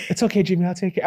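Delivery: even, unhurried monotone voice; a droning calm accountant, unbothered. Retold or imitated. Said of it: "his monotone voice".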